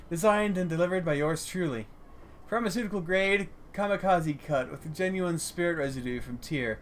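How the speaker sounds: smooth sales patter, lightly acted; lightly voiced street dealer. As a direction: pitch your product like a proud hustler. Voices grinning street drug seller.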